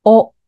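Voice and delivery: "お" with the open mouth rounded in; a loud, distinct model "お", lips rounded; clearly articulated vowel. Shown as a demonstration. Coach demonstrating vowel practice to learners, clearly articulated "お". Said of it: "あの口をすぼめてください".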